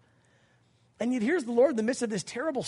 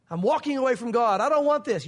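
mock defiant quitting; 5 dB louder than usual. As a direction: act out someone storming off in a huff. Acting out a believer quitting God.

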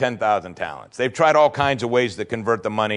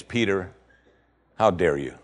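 Jesus rebuking Peter; 5 semitones lower, 4 dB quieter than usual. Retold or imitated. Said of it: "What Jesus is saying is".

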